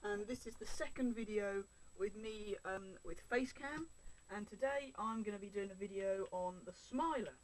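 talking up for the microphone; a bit loud. Real, not acted. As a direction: project a little, clearly audible. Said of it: "talking a bit loudly".

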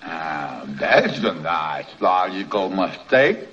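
talking with a mouth full; chewing while talking. Real, not acted. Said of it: "don't talk with your mouth full".

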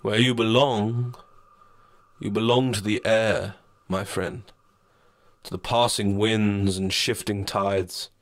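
lightly voiced reproachful shadow; a stern, knowing spirit. Shadow lectures the narrator.

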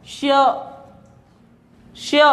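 "श्य" with a y sound trailing the sh; sh with y-glide. Shown as a demonstration. Teacher showing class how it is spoken, y-glided "श्य". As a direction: let a "य" follow the sh in "श्य". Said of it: "य निकला ना".

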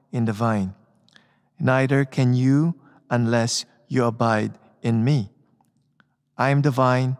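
measured, solemn gospel proclamation; scripture reading. Acted. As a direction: read it like a lector at Mass.

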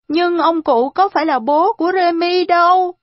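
put-on high, loud protesting child; child's outcry. A narrator's reading. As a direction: cry out as an upset little boy. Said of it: "Arthur kêu to". (kêu to, giọng trẻ con cao)

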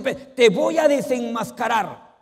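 hammed-up jealous spouse threatening exposure; mock threat. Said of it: "algunos dicen".

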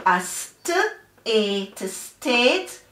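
"st" and "ate" apart, then "state" joined; sounding out and blending. Shown as a demonstration. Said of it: "blend the syllables together".

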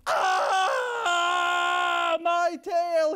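high loud cry of pain; pained yell. Acted. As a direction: yelp as the tail is yanked. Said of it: "he yelled".

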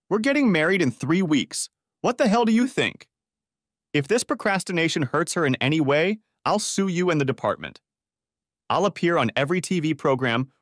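pissed off. Acted. Caller threatening police over missing fiancée, angry. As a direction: threaten them like a furious fiancé. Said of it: "being pissed off would work".

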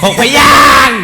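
loud, high exclamation; shouted, half-laughing announcement; emphatic shout. Real, not acted. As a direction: blurt it out at full volume. Calls out the syllable count.

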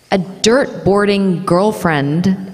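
put-on slow American "dirt boarding girlfriend", every R sounded; deliberate American R's in "dirt boarding girlfriend"; careful American accent. Shown as a demonstration. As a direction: take the American phrase slowly and carefully. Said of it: "American accent thing".

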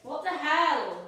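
shocked. Real, not acted. Sister annoyed at the imitation.

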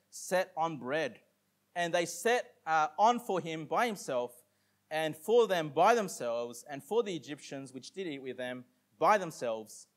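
slow, deliberate Bible reading; measured King James reading; scripture reading. Acted. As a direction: read the verse out to the congregation.

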